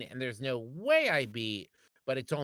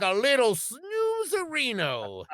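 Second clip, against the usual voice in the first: tipsy wine mom; 3 semitones higher than usual. Acted. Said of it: "now you're stuck in Gary".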